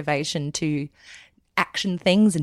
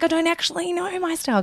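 much higher, half-sung self-quote; high mock confusion; 11 semitones higher than usual. Guest quoting her confused past self, high and light. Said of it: "I was like".

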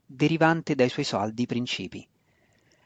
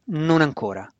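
higher, curt answer; brusque reply; 4 semitones higher than usual. A narrator's reading. Sister refusing her brother's question, brusque. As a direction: cut him off brusquely. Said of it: "fu la brusca risposta".

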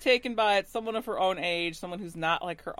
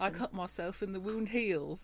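lightly put-on voice, softer; a hint of a mock character voice; 6 dB quieter than usual. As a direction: quote it in a slightly silly character voice. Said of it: "Nice voice".

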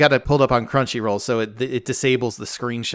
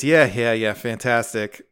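understated, deflated sarcasm; retold weary sigh; 3 semitones lower than usual. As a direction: let it sink like a mock sigh. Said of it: "Yuri sighs and says".

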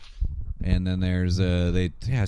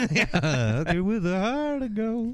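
higher, words pushed through laughter; laughing; 10 semitones higher, slower than usual. Real, not acted. Co-hosts joke about a movie heroine, laughing. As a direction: repeat it while still laughing.

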